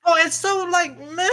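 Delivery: high scoffing meh; dismissive meh. Real, not acted. Unimpressed by the show.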